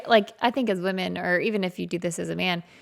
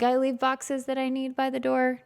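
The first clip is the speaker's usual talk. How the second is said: higher-pitched, rude retort; retold mean tone; 7 semitones higher than usual. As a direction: imitate your own snippy, mad tone. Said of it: "I was mean".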